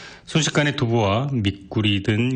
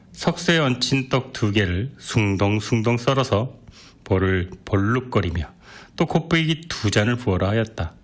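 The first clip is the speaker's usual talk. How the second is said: usual speaking voice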